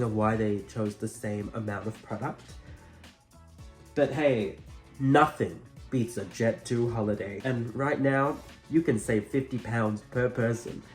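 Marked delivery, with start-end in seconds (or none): 3.9-10.8 upbeat holiday advert read; ad voice parody. Pretend. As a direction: sell it like a TV ad. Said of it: "Sorry, British".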